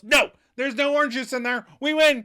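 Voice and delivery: loud, high triumphant yell; high-pitched victory yell. Retold or imitated. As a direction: shout it like you just won. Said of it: "And Rachel yells".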